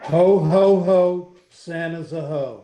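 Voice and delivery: loud jolly ho ho ho, slow punchline; cheeky Santa joke. Pretend. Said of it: "Mister Siciliano".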